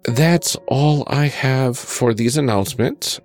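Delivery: talking with a cold; hoarse sick voice, pushing through. Real, not acted. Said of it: "give my sick voice a rest".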